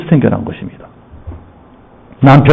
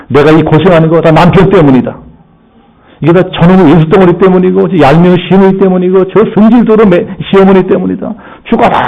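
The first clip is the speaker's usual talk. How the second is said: resentful wife; 4 semitones higher than usual. Acted. Embittered wife's grumbling.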